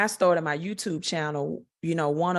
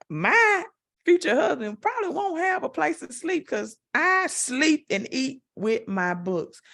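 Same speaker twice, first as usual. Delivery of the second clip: high mock lament; 10 semitones higher than usual. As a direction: play up a comic whine about sleeping with the books. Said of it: "I'm like".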